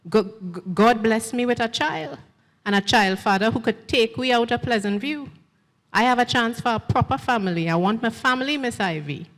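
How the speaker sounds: stuttering plea. Acted. Young woman pleading with Miss Ivy, lightly stammered. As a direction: beg Miss Ivy, halting on the first word. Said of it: "I stutter".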